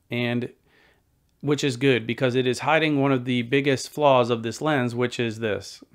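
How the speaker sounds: calling out from far off; projecting to a distant camera; yelling across the room. Real, not acted. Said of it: "I'm yelling across the room to it".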